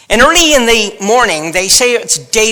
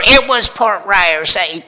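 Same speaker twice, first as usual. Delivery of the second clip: correcting spouse; slower than usual. Retold or imitated. Spouse correcting in front of family.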